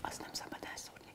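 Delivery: fast, hushed whisper to self.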